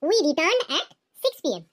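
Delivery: very slow, word by word for students to copy; slow dictation. Shown as a demonstration. Teacher reading an example to students, very slow and deliberate. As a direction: spell it out slowly like dictating to a class. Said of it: "teacher dictates example sentence".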